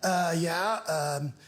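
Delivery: slow, hesitant mock millennial; lightly voiced millennial house hunter. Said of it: "you'll see a millennial couple".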